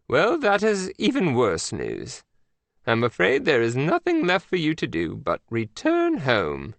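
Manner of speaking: a prim queen breaking bad news; Queen of England. The Queen scolds agent Mac by phone, prim.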